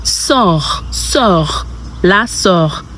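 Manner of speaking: "sœur" as a drawn-out "sor"; French pronunciation. Shown as a demonstration. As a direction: repeat "sœur" for learners, falling each time. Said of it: "And sister is".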